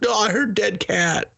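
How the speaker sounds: high put-on voice, insisting; mock eager girlfriend. Girlfriend insisting on seeing the cat, high mock voice. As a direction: chirp it like she can't wait.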